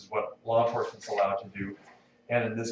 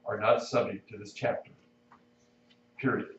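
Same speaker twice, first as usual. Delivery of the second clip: reading text aloud with spoken punctuation; dictating. Shown as a demonstration. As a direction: read it out clause by clause, naming each comma. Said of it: "which states".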